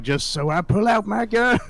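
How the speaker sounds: high, loud, rising comic blurt; exaggerated abrupt announcement, loud and high; mock gun announcement. Mocking sudden gun draw without warning.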